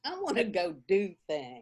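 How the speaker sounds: crying, whiny complaint; mock whine. Teasing her sister about being tired, mock whining. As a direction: whine like a bored kid. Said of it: "whining to her sister".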